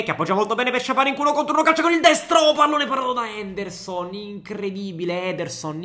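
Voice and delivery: fast live match commentary; breathless italian goal commentary. Acted. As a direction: call the action as it happens.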